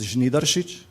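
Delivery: Žnidaršič pronounced as a Slovenian name, zh-NEE-dar-shich; Slovenian surname pronunciation. Shown as a demonstration. Host demonstrating a typical Slovenian last name, pronounced natively as Žnidaršič. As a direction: say Žnidaršič natively, with zh at the start and sh, ch at the end. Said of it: "I will just pronounce one last name".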